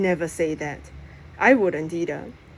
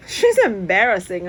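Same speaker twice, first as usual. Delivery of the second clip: scoffing; 5 dB louder than usual. Acted. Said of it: "I scoff".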